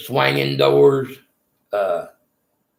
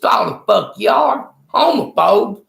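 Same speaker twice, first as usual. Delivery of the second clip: pitched-up mock shout at the guards; retold angry yelling; 9 semitones higher than usual. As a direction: replay the row, voice pushed up high and hot. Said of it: "I said".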